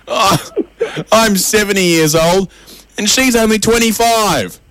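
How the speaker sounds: high, slow hammed-up wail; drawn-out fake sobbing voice; mock crying. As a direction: wail it like a weepy old man. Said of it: "The old man crying says".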